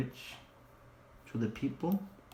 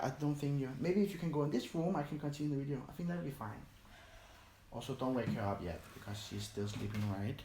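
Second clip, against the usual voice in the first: hushed; 7 dB quieter, faster than usual. Real, not acted. Mom arrives, baby asleep nearby.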